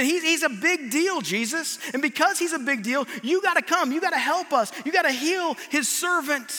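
insistent appeal, pitch lifting on each plea; urgent pleading. Acted. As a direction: press the case with mounting emphasis. Elders plead with Jesus for centurion.

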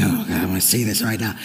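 tempted inner voice. Retold or imitated. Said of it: "we really think".

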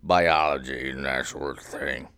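low, lightly put-on smart voice; a hint of a suave expert; smart sexy voice. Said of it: "You sounded really smart and sexy just then".

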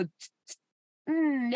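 mimicked atomizer puffs, then a pleased hum; perfume spritz noises. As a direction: spritz yourself with the mouth. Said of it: "was that the spritzing yourself".

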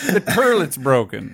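put-on slow New York accent, "turlet" with an er vowel; old New York accent. Co-host mourning regional speech, mock New York accent. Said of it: "no one says turlet".

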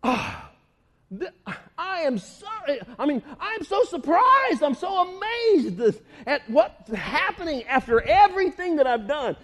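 amazed Jesus. Retold or imitated. Jesus amazed at their unbelief, mildly stunned. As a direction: lightly act stunned. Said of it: "In other words, like".

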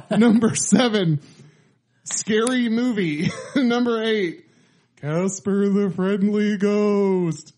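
SNL announcer. Pretend. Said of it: "Why am I doing like the S N L announcer?".

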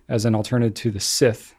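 "scythe" said as SITH, short i; mispronounced scythe. Real, not acted. Host reading out a fun fact, scythe mispronounced as sith. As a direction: say "scythe" to rhyme with myth. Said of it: "it's not scythe?".

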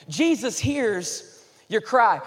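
each word held, very slow; slow emphatic declaration. Acted. Pastor promises the congregation Jesus hears, slowly. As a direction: land it like a promise. Sermon climax line.

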